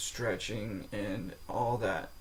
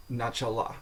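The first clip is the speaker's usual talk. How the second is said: начала with final ла stressed; stress on last syllable. Shown as a demonstration. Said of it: "the stress changes according to form".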